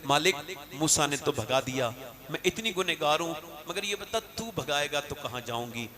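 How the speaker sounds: a weeping woman begging her Lord; quiet tearful lament; tearful prayer. Retold or imitated. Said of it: "रोने लगी".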